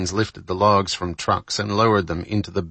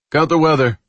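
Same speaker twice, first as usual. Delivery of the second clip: raised, high-pitched announcement; announcing; 8 semitones higher, 6 dB louder than usual. A narrator's reading. Third officer brings Pete the forecast, announcing. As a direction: announce it loudly to a shipmate. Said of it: "the third officer announced".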